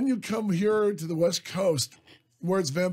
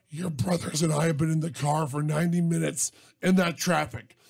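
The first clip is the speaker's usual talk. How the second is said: stern angry mom; 2 semitones lower than usual. Retold or imitated. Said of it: "she says".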